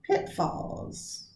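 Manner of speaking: "pitfalls" breathed out with PIT stressed; whispered answer. Shown as a demonstration. Teacher whispering the right stress of "pitfalls". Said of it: "The answer".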